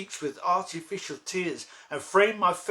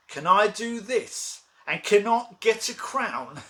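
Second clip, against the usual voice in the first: loud, raised, incredulous challenge; defiant question; 3 semitones higher, 5 dB louder than usual. Acted. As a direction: throw it out as a bold rhetorical challenge. Defiant climax of the soliloquy.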